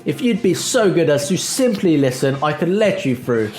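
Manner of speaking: lightly put-on posh English accent; a touch of mock-posh officialdom. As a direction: play it politely posh, lifting the sentence starts. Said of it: "I don't know why the posh accent is back".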